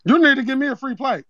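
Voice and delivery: put-on Zeke accent; Zeke-style street accent. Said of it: "that accent funny as shit".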